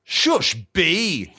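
high, emphatic shushing; interrupting hush. Acted. Boxer silences the indignant bee, high interrupting shush. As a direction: cut in with a high-pitched hush. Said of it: "interrupted Muhammad Ali".

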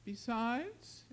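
hesitant, fading away; trailing off. A narrator's reading. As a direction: let the word hang in the air. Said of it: "Aaron's voice trailed off".

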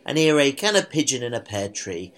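blocked nose, nasal voice; talking through blocked sinuses. Real, not acted. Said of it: "why do I sound so nasal".

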